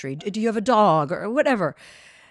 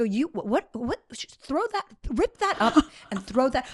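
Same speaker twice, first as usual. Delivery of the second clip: panicked order; 2 semitones higher than usual. Retold or imitated. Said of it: "I go".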